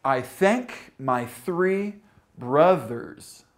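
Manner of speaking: "I thank my three brothers" slowly, each th distinct; careful th demonstration. Shown as a demonstration. Teacher reads learners a test sentence, "I thank my three brothers", slow careful th. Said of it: "point out the voiced and the unvoiced".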